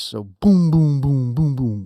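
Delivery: mouthing an 808 bass line; vocal 808 bass. Shown as a demonstration. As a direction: hum the bass hits as booms. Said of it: "eight oh eight style, bass".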